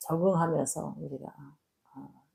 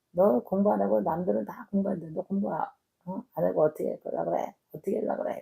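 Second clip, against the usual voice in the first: higher-pitched exasperated nagging; mock scolding mother; 4 semitones higher than usual. Mother nagging her son to study, in an exasperated scold. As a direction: scold him like a fed-up mom.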